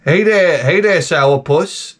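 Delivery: slow, mock-cheerful hey there; a hint of sarcastic cheer; teasing greeting. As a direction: needle the grump with a singsong hello. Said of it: "that's what I'm gonna start saying".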